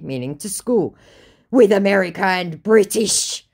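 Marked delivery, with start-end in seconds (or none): 1.5-3.5 loud, higher-pitched declaration; mock indignant scammer. Scammer widening his grievance, mock indignant. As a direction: proclaim it grandly.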